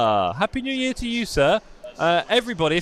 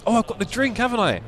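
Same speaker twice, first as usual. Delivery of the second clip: eating sour candy; 6 semitones higher than usual. Real, not acted. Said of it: "I've just put in my mouth".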